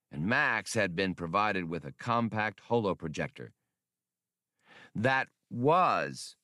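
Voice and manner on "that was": small computer voice, pitched up, mildly protesting; a little machine taking offence; objecting computer. Acted. Blue Max objecting to Han's complaint, lightly higher. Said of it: "the little module objected".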